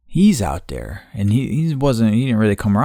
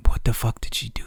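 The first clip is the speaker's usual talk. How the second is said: whispered aside; 6 dB quieter, faster than usual. Real, not acted. Whispered aside while retelling.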